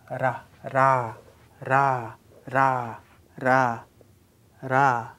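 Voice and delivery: "ra" as one light tongue tap; flipped R. Shown as a demonstration. Teacher drilling the Korean flapped R, "ra". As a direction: flap the tongue once on "ra". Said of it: "flipped R sound".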